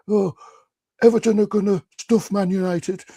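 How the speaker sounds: high-pitched mock Scouse; Scouse accent. Storyteller imitating a Scouser filmed before the cup final, Scouse accent. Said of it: "that great Scouse accent".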